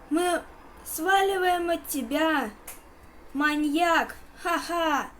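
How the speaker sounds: loud triumphant cheer; excited shout. Real, not acted. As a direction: yell it out in victory. Escaping the maniac triumphantly.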